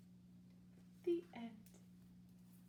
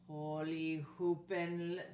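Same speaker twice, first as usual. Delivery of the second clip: holler; 4 semitones lower, 3 dB louder, much slower than usual. Acted. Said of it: "hollered Scapito".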